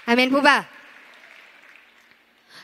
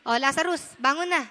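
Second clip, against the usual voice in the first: softer, casual wake-up call; gentle call; 6 dB quieter than usual. Retold or imitated. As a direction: coax him awake quietly. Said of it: "pwede namang sabihin ni Jesus Christ na".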